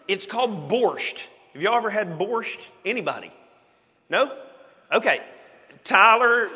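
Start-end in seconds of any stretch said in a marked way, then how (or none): 5.8-6.5 loud, high call across the room. Real, not acted. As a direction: call Tyler over the crowd. Calling out to Tyler.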